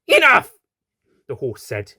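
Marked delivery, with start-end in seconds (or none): 0.0-0.5 very loud high outburst; angry shout. Acted. Annoyed horse silencing the doctor, loud shout. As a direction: cut her off with a roar.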